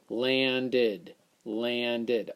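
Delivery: landed with the id ending, LAN-did. Shown as a demonstration. Teacher testing the id ending on landed. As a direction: sound out landed with id. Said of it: "Oh, like the plane landed".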